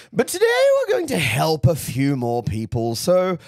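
theatrical camp diva voice; lightly voiced camp auntie; campy drag queen. Holds Auntie Loosh voice.

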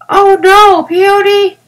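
big sister correcting gravely; little girl being very serious; grave wisdom. A narrator's reading. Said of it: "answered Violet with grave wisdom".

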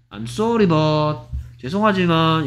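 restrained apologetic lead-in; polite refusal. Shown as a demonstration. Teacher models how one would refuse, polite apology. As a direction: begin a gentle, polite refusal. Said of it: "이렇게 거절하겠죠".

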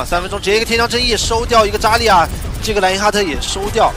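real caster excitement; excited play-by-play. Real, not acted. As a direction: call the kill with rising excitement. Commentator calls a double kill.

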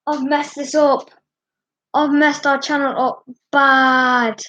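fighting back tears as you admit it; tearful. Real, not acted. Distraught youtuber near tears over ruined channel. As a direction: voice catching on the edge of tears.

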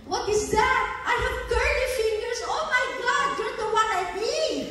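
high and fast, gushing with excitement; excited retelling. Retold or imitated. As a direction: rush it out like she just found the cure. Retold excited phone call.

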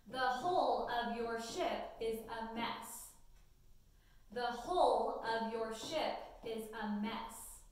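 slow, clear dictation read to students. Acted. Teacher dictating a sentence to students, slow and clear. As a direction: read each word slowly so they can write it.

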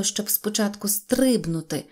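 usual speaking voice

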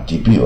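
"debut" with no final t; silent T. Shown as a demonstration. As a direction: say "debut" as dee-BYOO. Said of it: "也不发音啊".

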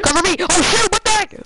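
high, loud panicked yell; cover me shout. Real, not acted. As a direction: shout for cover under fire. Under fire in game.

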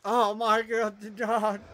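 slow, loud exasperated groan. Real, not acted. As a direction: drag it out in disbelief.

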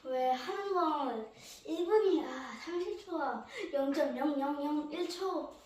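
winded between reps; audible breathing. Real, not acted. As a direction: talk through heavy breaths. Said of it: "숨 좀 고르고요".

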